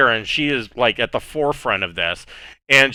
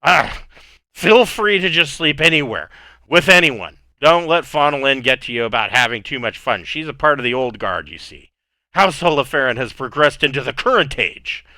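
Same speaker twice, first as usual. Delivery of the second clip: jovial drunk nobleman mocking the old guard; drunk host; 2 semitones higher than usual. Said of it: "And he hiccups".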